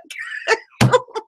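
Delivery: breathy squeal of laughter; real amused giggling; high airy laugh. Real, not acted. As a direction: let a high giggle escape. Laughing at her own story.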